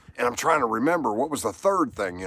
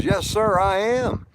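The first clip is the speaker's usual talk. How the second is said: higher, chirpy waitress reply; happy waitress; 8 semitones higher than usual. Retold or imitated. Cute waitress answering the customer, happy and higher. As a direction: answer brightly like an eager waitress. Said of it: "she looked up all happy".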